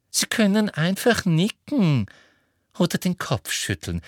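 high, pressing instruction; insistent Umbridge. Acted. Umbridge tells Marietta she may just signal, insistent. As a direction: start high and strong, easing down at the end.

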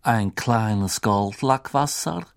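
slow, changed woman's voice; barmaid voice. Acted. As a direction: offer it like a friendly landlady. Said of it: "die Stimme einer Frau".

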